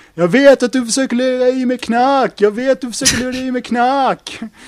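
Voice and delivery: loud, high-pitched scream. Speaker retells how the listener went around the venue, retelling a scream. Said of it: "gick du runt i den här lokalen och skrek så här".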